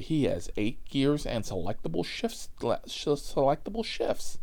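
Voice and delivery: lightly voiced car-trivia fanatic; excitable car nerd. Passenger showing off car features to the driver, lightly imitated excitable nerd. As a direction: reel off car specs like an over-keen passenger. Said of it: "Alan from the fucking Hangover mixed with Dustin Hoffman".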